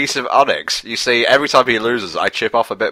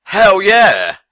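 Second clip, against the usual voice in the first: excited shout; 10 semitones higher, 5 dB louder than usual. Real, not acted. Excited cheer at the game.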